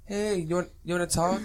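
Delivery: taunting. Retold or imitated. Mocking journalist taunting Michael.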